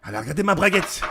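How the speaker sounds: thrilled, voiced out loud and emphatic; open excitement. Smitten man repeating news to his captain, open excitement. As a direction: announce it openly, unable to contain the thrill.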